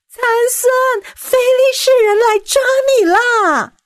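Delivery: high, loud alarm call; shouting. A narrator's reading. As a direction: yell out the warning. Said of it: "接着他又再次的大喊". (大声惊叫)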